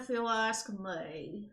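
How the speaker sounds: slow, talking through clenched teeth; through gritted teeth. Acted. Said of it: "you try talking through your teeth".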